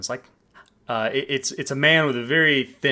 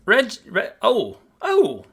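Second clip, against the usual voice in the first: high, louder, fussy host voice; eager maitre d'; 6 semitones higher, 4 dB louder than usual. Acted. Maitre d' seats the traveller at the bar, eagerly. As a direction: charm the guest while making excuses.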